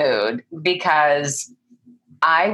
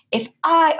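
lightly put-on British transatlantic accent, higher pitch; 12 semitones higher than usual. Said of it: "British but transatlantic accent".

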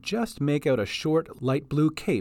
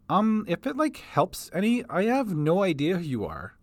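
put-on higher, hesitant young voice; nervous offering; 5 semitones higher than usual. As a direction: offer it timidly. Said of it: "she offered".

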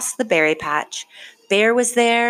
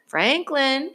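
higher, searching call of a name; 8 semitones higher than usual. A narrator's reading. Father searches the path calling for Franklin, higher call. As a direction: call for a lost child. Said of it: "he called".

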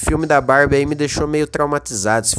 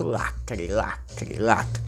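lacre echoing lower and much softer; fading echo; 8 semitones lower, 10 dB quieter, much slower than usual. Pretend. Mock echo on repeated word.

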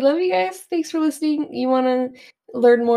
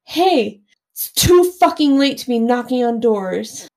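mild retold yell; 4 dB louder than usual. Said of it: "I'm like".

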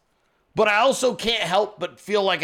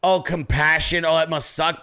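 sarcastic pity; the ranter mocks pity he won't feel; mock sympathy. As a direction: fake a caring sigh over "oh, it must suck". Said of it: "wanted to have some type of grace".

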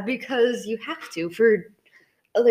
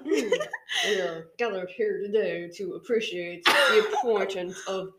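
slow, lightly voiced presidential speech; a hint of a solemn speech; Barack Obama impression; 4 semitones lower than usual. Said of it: "It's supposed to be a Barack, Barack Obama".

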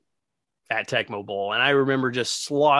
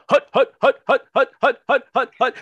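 quarterback calling cadence; 11 semitones higher, 6 dB louder than usual. Retold or imitated. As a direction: call the snap count like a stalling quarterback. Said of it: "because it'd be".

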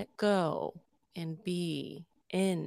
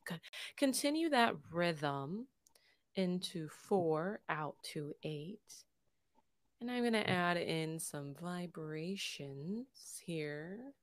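guided meditation. Acted. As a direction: lead the breathing gently, unhurried. Leads a breathing meditation.

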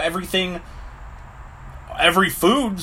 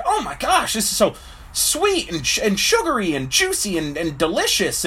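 delighted taster; 3 semitones higher than usual. Acted. First man tasting a strawberry.

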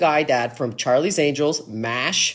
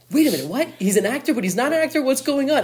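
higher-pitched mock bewilderment; baffled reaction; 8 semitones higher than usual. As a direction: act out puzzled disbelief, pitch rising. Retells own baffled reaction.

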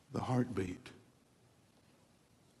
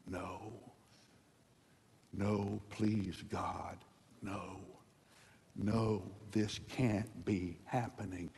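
quiet anguished pleading; 2 semitones lower, 4 dB quieter, much slower than usual. Retold or imitated. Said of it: "they would begin to scream".

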